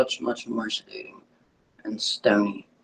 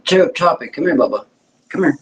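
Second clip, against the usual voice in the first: calling the dog; 3 semitones higher, 4 dB louder than usual. Real, not acted.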